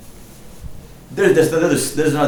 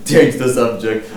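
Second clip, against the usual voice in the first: louder and slow, like a declaration; loud announcement; 6 dB louder than usual. Shown as a demonstration. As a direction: announce it slowly and firmly.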